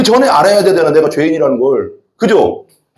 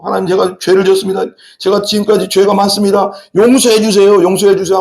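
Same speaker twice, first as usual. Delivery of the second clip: imitated tearful plea; 3 semitones higher than usual. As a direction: beg forgiveness as if weeping, lightly acted. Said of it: "그 정도로 내가 내 죄에 대해서 통곡해야". (살짝 울먹이며 용서를 비는 흉내)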